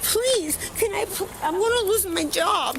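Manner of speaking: begging. Real, not acted. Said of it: "don't beg me".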